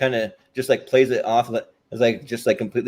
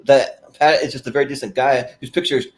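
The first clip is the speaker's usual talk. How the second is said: Ed Grimley impression. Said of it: "he's like".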